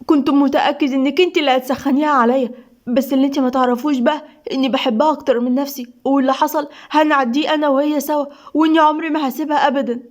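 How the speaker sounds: a touch of irritated sarcasm; sarcastic annoyance. Acted. Seif answering his wife's sister, mildly sarcastic and annoyed. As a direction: push back, mildly annoyed. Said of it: "سيف بسخرية وضيق".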